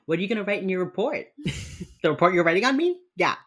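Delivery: voicing Gideon grilling Hotch about his report; mock suspicious prodding. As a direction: pester him about the report. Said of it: "And Gideon is like".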